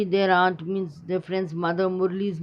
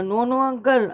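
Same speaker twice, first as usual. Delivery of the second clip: insisting; 5 semitones higher, 3 dB louder than usual. Acted. Child insisting on the route.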